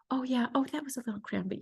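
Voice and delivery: sarcastic hushed imitation of the nurse; mocking whisper. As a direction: brush the pain off in a mock hush. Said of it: "just to say".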